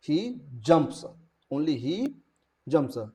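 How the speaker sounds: teacher isolating the verb ending; stress on jumps. Shown as a demonstration. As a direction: isolate "jumps" to show the added s. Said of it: "verb के आखिरी में एस लग जाएगा".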